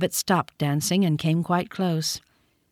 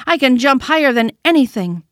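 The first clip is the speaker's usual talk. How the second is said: higher, louder little boast; little rabbit boasting; 5 semitones higher, 5 dB louder than usual. A narrator's reading. Toy rabbit bragging to the wild rabbit, higher and louder. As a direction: puff yourself up like a small proud toy. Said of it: "said the little rabbit".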